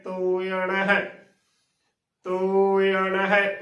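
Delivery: "ਤੋਏ ਆਣਾ ਹੈ" with drawn-out o-e glide; careful model pronunciation. Shown as a demonstration. Teacher showing learners the correct reading, careful model pronunciation. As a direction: say "ਤੋਏ ਆਣਾ ਹੈ" slowly, syllable by syllable. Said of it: "ਇਸ ਦਾ ਸ਼ੁੱਧ ਉਚਾਰਨ ਹੋਵੇਗਾ".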